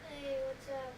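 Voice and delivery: dreary classroom greeting, lightly put on; bored teacher. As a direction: imitate a teacher who is extremely bored. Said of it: "makes her sound like she's extremely bored".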